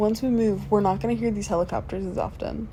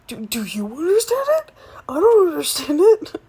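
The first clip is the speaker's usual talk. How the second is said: whisper; 7 semitones higher, 6 dB louder than usual. Real, not acted. Whispered aside to fiancé.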